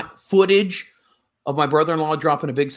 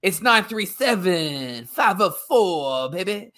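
Dusty Rhodes impression. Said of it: "I feel like Dusty Rhodes".

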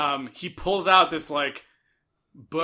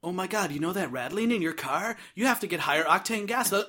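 excited gushing; 2 semitones higher than usual. Retold or imitated. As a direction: voice rising to an excited shout. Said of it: "she's like, immediately like".

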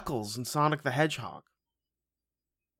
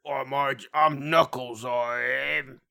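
Beaver voice; 2 semitones higher, 4 dB louder, slower than usual. Pretend. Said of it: "making everyone sound like the Beaver".

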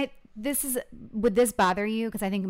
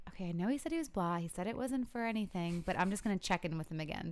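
inner thought; 7 dB quieter than usual. Retold or imitated. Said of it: "I was just like".

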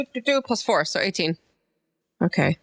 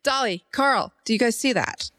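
put-on Southern accent; 3 semitones higher, slower than usual. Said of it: "wow, I just went Southern".

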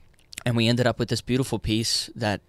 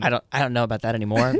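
laughing; faster than usual. Real, not acted. Laughing denial.

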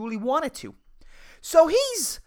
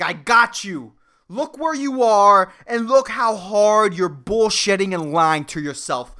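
a hint of the evil voice; 5 dB louder, slower than usual. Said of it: "This fucking voice of evil".

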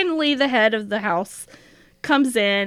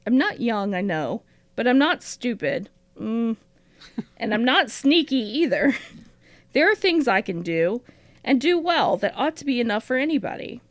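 diary reading. Acted. Host reads Matilda's diary entry aloud to her co-host, lightly voiced and earnest. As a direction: read the entry as the earnest young sister.

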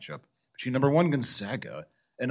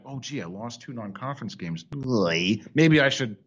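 mock dejected coach; 3 semitones lower than usual. Mocking the coach's imagined excuse.

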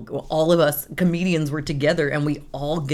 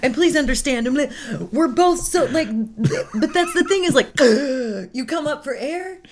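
laughing; 8 semitones higher, 4 dB louder than usual. Real, not acted. Laughing at shared anxiety.

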